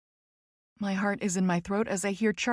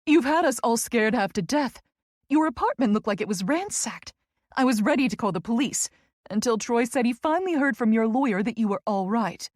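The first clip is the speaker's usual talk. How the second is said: higher, emphatic fretting; worried friend; 3 semitones higher, 3 dB louder than usual. Acted. Friend who feared for Tess, worried and emphatic. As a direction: scold her lightly out of worry.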